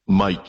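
"Mike" in a Scottish accent; own Scottish pronunciation. Shown as a demonstration. Scotsman explaining coffee-order mix-ups, "Mike" in his Scottish accent. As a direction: say "Mike" the Scottish way, sounding close to Blake. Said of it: "the way I say it".

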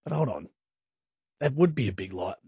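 quietly reconsider, half to yourself; a hushed second thought; thinking it over. Retold or imitated. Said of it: "I stop for a second and I'm like".

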